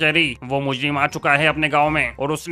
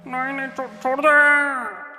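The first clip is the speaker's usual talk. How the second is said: high panicked pleading; 7 semitones higher, slower than usual. Acted. Guard pleads for his life.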